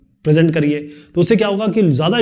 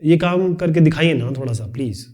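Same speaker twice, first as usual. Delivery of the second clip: polite request. Shown as a demonstration. Teacher demonstrating a polite request after a bossy order. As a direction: ask nicely, almost pleading. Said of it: "ये अलग तरीका हो गया".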